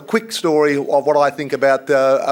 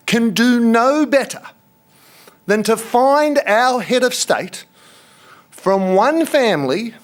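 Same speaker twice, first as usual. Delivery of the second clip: slow, earnest and a touch higher, pressing each phrase; passionate plea; 4 semitones higher than usual. Real, not acted. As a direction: let it boil over a little, but hold back. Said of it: "let me say this, and I mean it".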